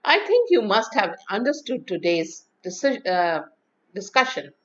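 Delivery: confident statement falling on "discussion"; downward inflection. Shown as a demonstration. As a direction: let the pitch drop at "discussion". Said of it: "The downward inflection is a statement".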